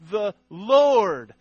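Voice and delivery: both words set apart, LORD loud and high; stress on LORD. Shown as a demonstration. Telling how scribes wrote the name, stress on LORD. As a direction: proclaim "Lord" loud and long. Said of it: "special pen to write these words".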